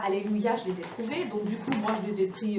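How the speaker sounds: ordinary delivery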